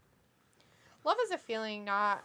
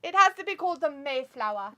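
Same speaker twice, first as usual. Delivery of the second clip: higher, louder put-on British accent; mock British accent; 4 semitones higher, 5 dB louder than usual. Co-host adding to the wooden ship joke, mock British accent. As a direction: chime in with a hammy British accent. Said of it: "Travis would totally pick up the accent".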